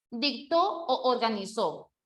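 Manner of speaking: "o organizó" with both o sounds merged into one long o; clashing o organizó. Shown as a demonstration. Teacher reads out the faulty option, doubled o in "o organizó". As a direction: run "o" into "organizó". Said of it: "no puede ser o organizó".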